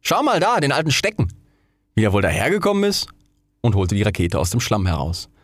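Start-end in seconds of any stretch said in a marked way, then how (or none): 0.0-3.1 lightly voiced boy, high start. A narrator's reading. Boy showing his friend an old stick, lightly boyish. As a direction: point it out like a lad, higher than usual.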